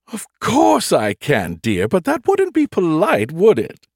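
AI ship voice. A narrator's reading. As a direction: gently tease him, like a prim aunt. Nagatha teasing.

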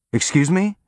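high, disbelieving question; can't believe what he heard; incredulous. A narrator's reading. Incredulous reply.

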